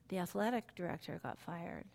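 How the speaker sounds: hushed secretive whisper, no voice. Retold or imitated. Son whispering gossip to his mom at the game, whispered. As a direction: lean in and breathe it out like a secret. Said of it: "talking literally like this".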